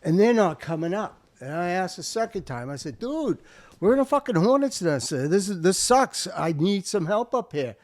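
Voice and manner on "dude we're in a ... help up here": urgent plea. Retold or imitated. Retold radio plea under fire.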